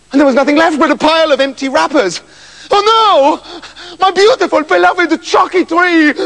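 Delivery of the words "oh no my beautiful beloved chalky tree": high, loud anguished howl; howling king. Acted. King finding his tree withered, loud high howl. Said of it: "howled the king".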